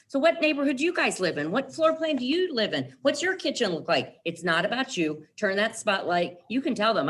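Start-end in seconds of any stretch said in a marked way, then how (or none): 0.1-4.2 curious client. Retold or imitated. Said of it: "the high eye puts the spotlight back on you and says".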